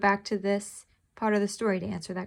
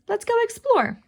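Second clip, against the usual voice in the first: higher, eager call; 13 semitones higher, 5 dB louder than usual. Acted. Toby calls to Kiki to go explore, an eager call. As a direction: call back over your shoulder. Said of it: "he called over his shoulder".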